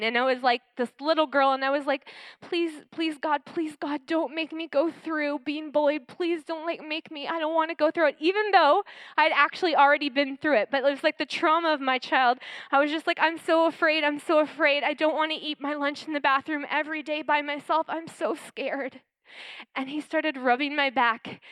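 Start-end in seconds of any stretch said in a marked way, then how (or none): 2.4-8.2 put-on soft, pleading little girl; frightened pleading. Scared child begging God not to be bullied, soft frightened plea. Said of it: "I started shaking and crying". 13.2-19.0 put-on soft, pleading little girl; frightened pleading. Scared child begging God not to be bullied, soft frightened plea. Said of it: "I started shaking and crying".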